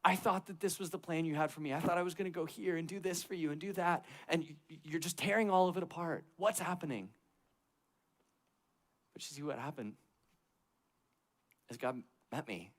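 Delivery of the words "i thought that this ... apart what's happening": retold crying plea. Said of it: "I started crying".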